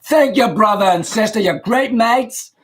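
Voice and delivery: a hammed-up fake British accent; bad British accent. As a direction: play the American faking a Brit. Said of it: "as bad as my British accent is".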